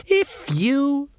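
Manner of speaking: slow, sneering elf voice; mocking elf. Elf taunting Magrat in the dark, slow and sneering. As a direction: taunt her lazily, savouring it.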